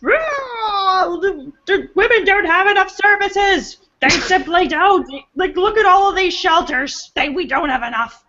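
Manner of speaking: high, whiny wail of a mock activist; mock protester. Protester jumping the barricade to complain, mock wailing. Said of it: "just be like".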